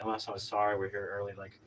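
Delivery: soft, low, apologetic politeness; retold placating niceness; extra nice. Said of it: "extra nice and be like".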